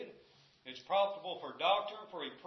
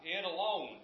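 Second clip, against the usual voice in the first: "alone" leaned on, a touch louder; stress on alone; 4 dB louder than usual. Real, not acted. Preacher setting the Bible apart from men's writings, stressing "alone". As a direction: put firm weight on "alone". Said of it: "I stress that word alone".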